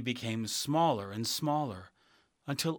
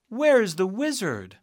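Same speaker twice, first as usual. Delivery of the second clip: calling out; 9 semitones higher, 10 dB louder than usual. Acted. Calling out in empty hall.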